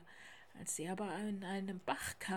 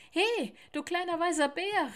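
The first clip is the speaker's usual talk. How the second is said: loud, higher call from up in a tree; woodpecker calling down; 8 semitones higher, 9 dB louder than usual. A narrator's reading. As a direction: hail the bear from above. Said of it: "rief da ein Specht von oben". (lauter Ruf von oben)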